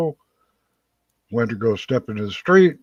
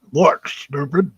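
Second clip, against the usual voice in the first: slow, higher, louder scolding; mock scolding; 6 semitones higher, 4 dB louder, slower than usual. Angel scolding a nonbeliever, slow mock scolding. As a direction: talk down to a fool slowly.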